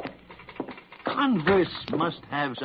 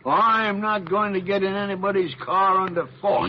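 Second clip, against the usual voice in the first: louder, indignant protest; indignant refusal; 4 semitones higher, 4 dB louder than usual. Acted. Doctor defying the gunman, indignant and raised. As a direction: stand your ground against the gun.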